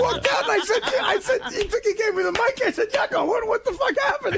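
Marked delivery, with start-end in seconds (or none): 2.9-4.4 high-pitched retold disbelief; incredulous. Comic re-enacts asking clown after one-minute set, incredulous. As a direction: blurt it out baffled, near laughter. Retells his baffled question amid laughter.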